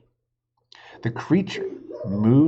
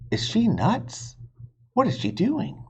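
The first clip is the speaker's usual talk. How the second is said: put-on alarmed boy; 10 semitones higher than usual. Jack sees Annie near the dinosaur, alarmed. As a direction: gasp it out like a startled boy.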